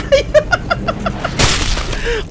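high, relieved laughter after the scare; หัวเราะโล่งใจ; nervous laugh. Real, not acted. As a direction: laugh the fright away.

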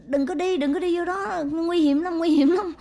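high, rising into a loud frightened cry; frightened child shouting. Retold or imitated. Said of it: "Nó cứ la". (bé gái hoảng sợ hét lên ngăn lại)

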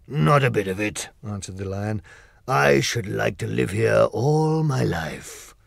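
slow, different-toned lion in delight; admiring the forest; Lion savoring the view slowly; joyful Lion. Acted.

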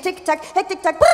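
clock ticking sounds, speeding up. Pretend. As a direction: tick like a nervous clock. (tickende Uhr, hektisch)

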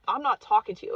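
flatly refuse, digging in; stubborn refusal. Retold or imitated. A stubborn skull refusing the speaker, loud.

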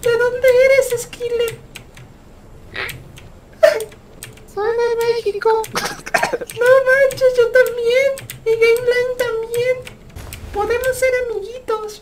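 put-on kid gamer, slightly drawn out; lightly faked over-friendly little kid; niño rata voice. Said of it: "hablen como niños ratas".

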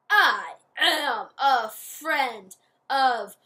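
very loud, slow, monstrous roar; furious witch roar. Acted.

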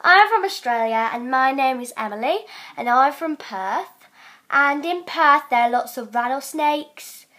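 uncertain attempt at an Australian accent; wavering amateur Australian accent. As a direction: introduce yourself in put-on Australian. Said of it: "Okay, I'm doing Australian".

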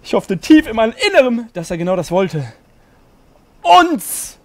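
high, overdramatic narration, bursting out on the last word; hammed-up yearning. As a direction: ham up the longing, then cry out. Hammed-up fanfiction reading.

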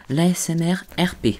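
ASMR whisper. Shown as a demonstration. Naming ASMR types, whispered.

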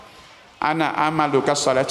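slow, solemn declaration; slow reveal. Acted. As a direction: announce it word by word. Companion reveals again, slowly. (ประกาศช้าๆ อย่างสง่า)

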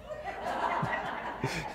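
quiet laugh at the joke; laughing at his own joke; soft breathy laugh. Real, not acted. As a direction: chuckle under the breath.

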